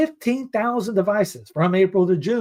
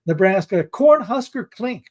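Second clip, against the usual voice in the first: put-on half-hearted Nebraskan accent, pitched up and stretched; attempted Nebraskan accent; 3 semitones higher than usual. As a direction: draw out Cornhusker Clink in a would-be Nebraskan accent. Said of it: "I don't have a Nebraskan accent on that".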